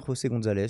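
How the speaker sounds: The name with the J as a throaty Spanish jota; prononciation espagnole. Real, not acted. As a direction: say "José" the Spanish way, with a guttural first sound. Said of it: "s'il faut le prononcer à l'espagnol". (prononcer « José » à l'espagnole, avec la jota raclée)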